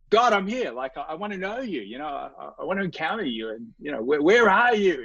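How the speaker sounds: retold exasperated prayer, pitched high; annoyed plea. Hungry young man calling on God to show up, annoyed. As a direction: plead with mild annoyance, voice rising well up on key words. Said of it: "I'm pretty annoyed".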